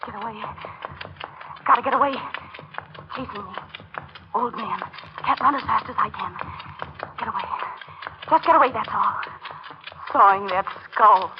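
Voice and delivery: high, fragmented frantic self-talk; panicked flight. Acted. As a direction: babble in short bursts while fleeing. Fleeing alone in the dark.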